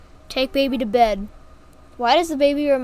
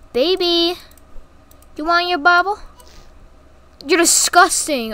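put-on baby talk; 5 semitones higher than usual. Talking to game baby.

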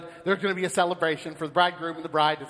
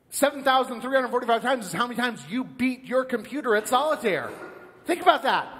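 higher, excited explaining; hammed-up boast on someone's behalf; enthusiastic angel; 5 semitones higher than usual. Angel proudly explaining the dead man's score, enthusiastic.

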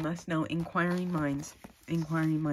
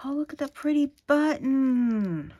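higher, louder, thrilled cry of delight; 9 semitones higher, 7 dB louder than usual. Real, not acted. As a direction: gush over the pretty button. Delighted at a button.

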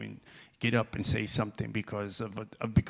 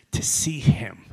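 whisper; 8 dB louder, slower than usual. Real, not acted. Sermon point, hushed.

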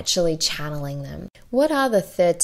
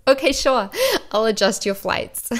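humoring assistant; 5 semitones higher than usual. Retold or imitated. Assistant voiced in retold exchange.

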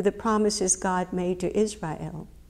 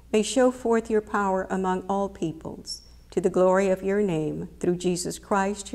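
prayer. Acted. Opening prayer before sermon.

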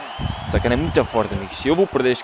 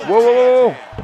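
startled yelp; 7 semitones higher, 5 dB louder, much slower than usual. Real, not acted. Dodging a flurry in game.

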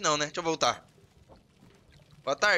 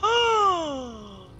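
shocked shout; 13 semitones higher, 4 dB quieter, much slower than usual. Real, not acted. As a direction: cry out as if shot. Shot in game. (grito assustado de quem levou um tiro)

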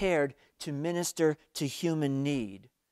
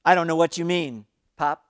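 louder, fast, higher flustered brushing off; flustered denial; 4 semitones higher, 9 dB louder, faster than usual. A narrator's reading. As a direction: blurt it out to dodge the moment. Father deflects, flustered.

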